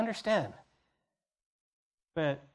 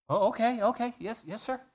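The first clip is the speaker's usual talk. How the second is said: higher, eager quick agreement; eager yes-sir; 4 semitones higher than usual. Acted. Disciple answering Jesus's request, eager and high. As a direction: play the keen disciple saying yes.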